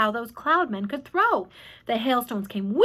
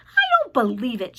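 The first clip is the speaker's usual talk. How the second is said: shouted; 5 dB louder than usual. A narrator's reading. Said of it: "shouted the centipede".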